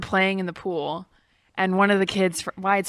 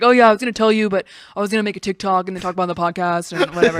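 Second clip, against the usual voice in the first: casual; 3 dB louder, faster than usual. Retold or imitated. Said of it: "he was just like".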